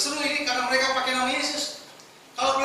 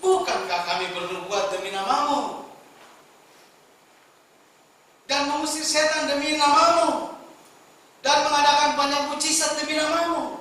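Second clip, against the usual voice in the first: louder, rising plea; loud pleading protest; pleading claim; 4 semitones higher, 5 dB louder than usual. Acted. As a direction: beg with wounded pride. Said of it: "sambil memelas, sambil memohon".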